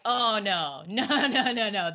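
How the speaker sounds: laughing no, no, no at your own despair; laughing exasperation. Retold or imitated. A worn-out mom to her kids, laughing helplessly. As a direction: imitate a frazzled mom, laughing it off.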